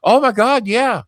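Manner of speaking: high, fast, starstruck manager; mock-awed hotel manager. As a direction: gush like a fan meeting a star. Manager gushing.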